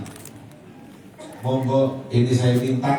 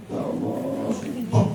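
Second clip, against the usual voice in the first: mock tearful lament; 12 semitones higher, slower than usual. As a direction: cry out to God in a thin, hushed, much higher voice. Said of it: "Ummu Salamah nangis". (ratapan pura-pura, tinggi dan lirih)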